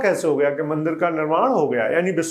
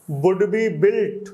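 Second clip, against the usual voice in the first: slow dictation reading; much slower than usual. Shown as a demonstration. Slow reading of the English text.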